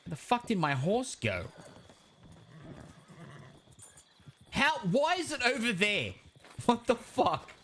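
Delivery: raspy, high and baffled; smoker's rasp. Acted. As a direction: rasp it out in disbelief. Horse ran off, disbelief.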